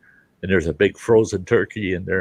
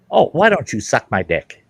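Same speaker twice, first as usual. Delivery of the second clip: raised-pitch parrot taunt; rude parrot; 4 semitones higher, 4 dB louder than usual. Acted. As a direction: toss out the insult like a cussing bird. Parrot insults preacher again.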